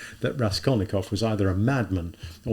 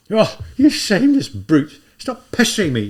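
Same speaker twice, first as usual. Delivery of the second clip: put-on angry girl; 10 semitones higher, 9 dB louder than usual. The girl shouting at the man pestering her, loud and angry. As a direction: shove the brute away with the voice.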